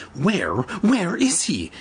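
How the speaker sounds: slow, halting panicked question; stammering in panic. A narrator's reading. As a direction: stumble over the words in fear. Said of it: "he stammered".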